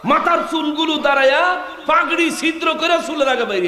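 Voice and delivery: high-pitched, ringing sermon cry; impassioned preaching. Acted. Preacher marvels to the crowd at Omar's anger, high impassioned cry.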